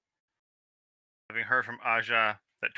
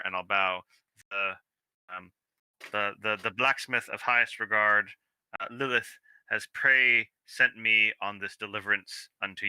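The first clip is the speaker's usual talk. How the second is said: slow, overly grand courtly speech; mock-formal messenger addressing the toymaker; a lightly pompous herald, slow and ornate; formal courier; 3 semitones lower, slower than usual. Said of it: "in a formal way".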